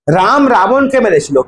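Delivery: slow, even, word by word; slow dictation. Shown as a demonstration. Teacher dictating an example sentence to the class, slow and even. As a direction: spell it out slowly for the class to copy. Repeats dictation after scolding.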